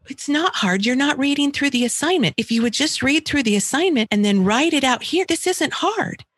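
lecturing parent. Shown as a demonstration. Parent arguing with child over homework, exasperated. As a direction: argue the point impatiently. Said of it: "the dance that you're usually doing".

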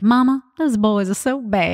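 slow Southern child-talk, imitated; Southern accent. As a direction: drawl it slowly in a Southern accent. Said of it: "used to have a Southern accent".

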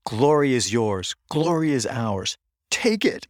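mock locker-room rallying cry, pitch climbing; retold rousing pep talk. Coach firing up players to claim glory, retold rousing pep talk. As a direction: build to a high final exhortation.

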